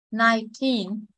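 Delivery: put-on Nineteen with TEEN stressed; nine-TEEN, second syllable prominent. Shown as a demonstration. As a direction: put the weight on the end of Nineteen. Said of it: "Em thấy nhấn âm hai".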